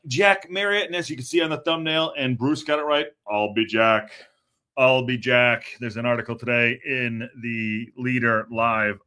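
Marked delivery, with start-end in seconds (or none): 3.3-5.6 put-on light Austrian accent, punchy catchphrase; lightly put-on Austrian catchphrase delivery. Host riffing on viewer's joke about the striker, Austrian accent. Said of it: "say it with an Austrian accent".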